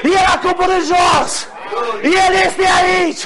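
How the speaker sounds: high, ringing revival proclamation; fervent preaching. Real, not acted. Preacher rousing the church to sing victory, fervent preaching. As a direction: drive each phrase home at full force.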